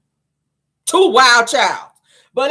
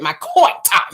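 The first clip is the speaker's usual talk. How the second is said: with an attitude; slower than usual. Shown as a demonstration. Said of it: "You gotta say it with an attitude".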